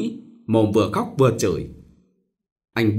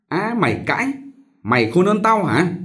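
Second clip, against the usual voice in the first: furious mistress; 8 semitones higher than usual. Acted.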